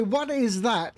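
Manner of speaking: mock German-accented English. Shown as a demonstration. Streamer showing viewer how to get German down, German accent. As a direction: lightly put on a German accent. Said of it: "in a German accent".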